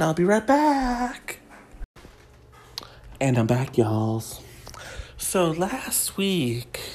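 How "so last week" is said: hushed whisper to open the gossip; conspiratorial unvoiced whisper. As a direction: lean in and whisper like sharing a secret.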